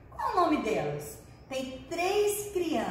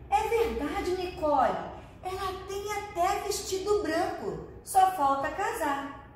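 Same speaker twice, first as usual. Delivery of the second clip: a lightly voiced little girl, raised higher; playful girl voice; 5 semitones higher than usual. Luna teasing Nicole about the bride cloud, lightly voiced girl. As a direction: play the cheeky child Luna, lilting up high. Luna's line in read story.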